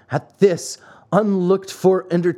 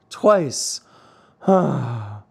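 sighing; 3 semitones lower than usual. A narrator's reading. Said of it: "sighed deeply".

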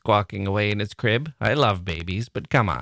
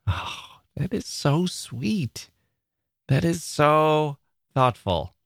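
slow, moved, a little higher; touched; 6 semitones higher, slower than usual. Real, not acted. Host moved by a listener couple's email, slow and touched. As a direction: savour each word, moved by the kindness. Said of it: "I'm choking up".

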